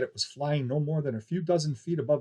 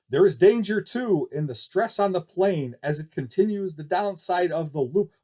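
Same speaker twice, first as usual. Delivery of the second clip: dramatic announcer; 4 semitones higher, 4 dB louder than usual. Acted. Barker warning of danger.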